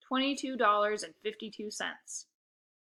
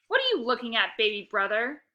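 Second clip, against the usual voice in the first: snapped; 5 dB louder than usual. Acted. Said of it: "she snapped".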